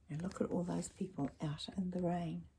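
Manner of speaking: soft whisper; hushed aside. Acted. Reader whispers to the child about the people in the rain. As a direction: point it out softly.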